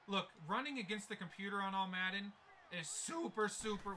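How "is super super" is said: voice crack. Real, not acted. Gamer griping about running the ball, voice cracking. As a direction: voice cracking mid-word. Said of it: "wow, voice crack of the century".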